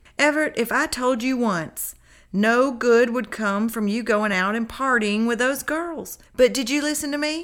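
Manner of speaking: playful teasing. Narrator reads the first-person narrator's words to Everett, teasing. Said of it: "I teased".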